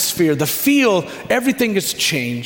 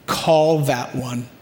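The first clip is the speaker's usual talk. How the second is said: slow, gentle command; 3 semitones lower, slower than usual. Acted. Jesus calling someone out of the crowd, gently. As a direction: say it gently, unhurried. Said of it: "you hear a gentle voice say".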